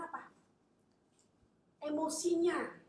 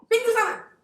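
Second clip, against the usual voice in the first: much louder, higher, sharp command; angry dismissal; 12 semitones higher, 20 dB louder than usual. Acted. Jesus orders the self-pitier out, angry shout. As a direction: throw him out the door.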